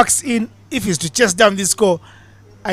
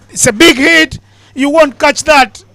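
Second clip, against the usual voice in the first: higher and louder, thrilled play-by-play; excited big-hit call; 5 semitones higher, 4 dB louder than usual. Real, not acted. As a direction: call the six as it flies. Commentator calls a big six.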